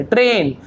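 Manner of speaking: ट्रेन with a long a. Shown as a demonstration. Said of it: "केवल ए पढ़ेंगे". (ट्रेन, ए की ध्वनि)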